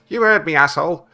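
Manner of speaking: high, loud parrot voice; rude parrot. Acted. Parrot answering its owner back, high and rude. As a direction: snap back as a defiant parrot. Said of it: "And the parrot says".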